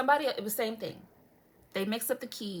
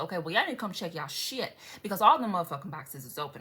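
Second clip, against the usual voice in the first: quick irritated rant; fed-up complaint running on without a break; pissed off; 3 semitones lower than usual. Real, not acted. Complaining about post office not checking the boxes, pissed off. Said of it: "I'm pissed".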